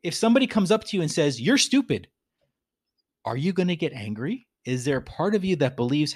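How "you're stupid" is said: "You're stupid" tossed out higher, in a lightly put-on sneering voice; a rude stranger's insult. Stranger insulting a listener, lightly voiced sneer. Insult acted out the second time.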